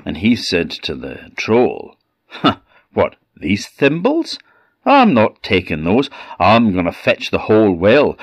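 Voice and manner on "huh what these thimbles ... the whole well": cocky boast. Acted. Boy boasting to troll.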